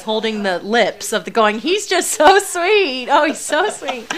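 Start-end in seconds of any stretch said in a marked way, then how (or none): 1.6-4.1 put-on high, slow, loud baby-talk cooing; slow doting coo that breaks into a laugh; cooing over the puppy. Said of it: "as Carlene says".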